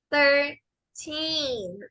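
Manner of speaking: thirteen with TH and long ee; English thirteen. Shown as a demonstration. Teacher modelling for students, slow thirteen. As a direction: say thirteen slowly, stretch the teen. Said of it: "T y H suena como the".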